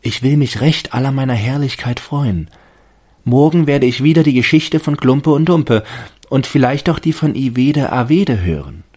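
high, loud determined tree voice; fir tree resolving. A narrator's reading. Fir tree plans to enjoy tomorrow, high hopeful resolve. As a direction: promise yourself bravely. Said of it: "dachte er".

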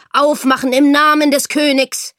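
loud, high official shout; blustering command. A narrator's reading. Soldier at the door in the king's name, blustering shout. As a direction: thunder the order with full authority. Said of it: "polterte Esther schon an der Tür".

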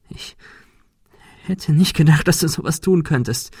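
a beaten creature reproaching Ben; hurt goat creature. Acted. Monika hurt after the blow.

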